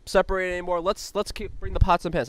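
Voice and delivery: hammed-up high silly voice; mock Paul impression. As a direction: squeak it out like a frantic rallying houseguest. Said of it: "and Paul's like".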